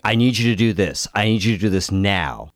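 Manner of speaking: imitating a scammer's urgent push, quick and insistent; urgent pushy caller. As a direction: rush them, make it sound like there's no time. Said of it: "had this urgency in his voice".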